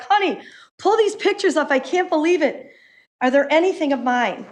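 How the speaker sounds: rushing to check the list; anxious excitement. Retold or imitated. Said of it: "I was like".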